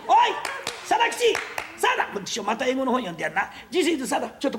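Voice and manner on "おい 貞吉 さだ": shouting for Sadakichi; calling out. Acted. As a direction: shout the name, much higher. Calling the servant from afar.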